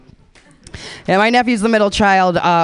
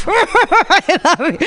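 mock sobbing farewell; 10 semitones higher, much slower than usual. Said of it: "so passionate".

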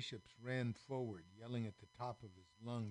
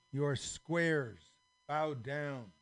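loud, slow, higher scornful order; slow haughty command; 4 semitones higher, 8 dB louder, much slower than usual. Acted. Nobles scolding the squares, slow loud command. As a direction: spell out their place with contempt.

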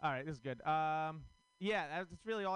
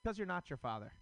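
mock ad tagline; 3 semitones higher than usual. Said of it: "look at the camera and say".

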